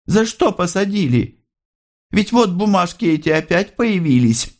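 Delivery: mother scolds her son, high and hurt; hurt and irritated. A narrator's reading. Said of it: "с обидой и раздражением". (обиженно и раздражённо, высоким голосом)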